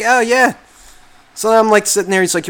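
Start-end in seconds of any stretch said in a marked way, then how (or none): 0.0-0.5 mock proud salesman. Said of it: "He was just like".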